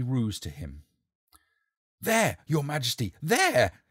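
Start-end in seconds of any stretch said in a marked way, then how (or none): 2.0-3.8 loud, higher pointing cry; shouted. Acted. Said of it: "he shouted".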